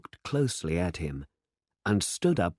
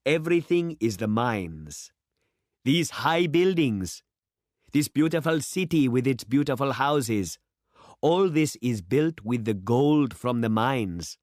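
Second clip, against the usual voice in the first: growing louder; 6 semitones higher than usual. Acted. John praising the city to people not there, rising and louder. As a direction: climb into a proud oration. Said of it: "His voice grew louder".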